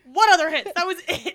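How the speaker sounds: high, incredulous retort through a laugh; mock exasperation. Friend annoyed at missing the only hit, mock exasperated. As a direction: throw it back in amused disbelief.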